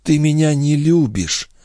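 put-on young wife, hurt. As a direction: accuse him gently. Lorenza reproaches.

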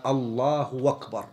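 أكبر said with a w sound for the hamza, as wakbar; hamza as waw. Shown as a demonstration. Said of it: "قلب الهمزة واوا".

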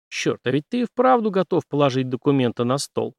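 usual speaking voice

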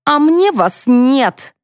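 shrieking back at the pitying lady; shouting. Acted. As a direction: throw it back at her, slowly. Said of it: "заорала Зинкина".

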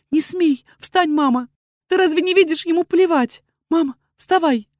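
high, loud, outraged cry; indignant shout. A narrator's reading. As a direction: yell at her to get up off her knees. Daughter shouts at kneeling mother.

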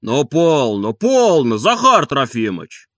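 calm him down, slowly; soothing. A narrator's reading. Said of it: "стараясь успокоить его".

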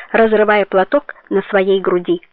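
plain reading voice

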